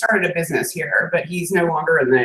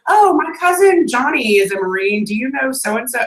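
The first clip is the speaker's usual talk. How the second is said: imitated eager acquaintance; 5 semitones higher than usual. Imitates people asking about Marine acquaintances.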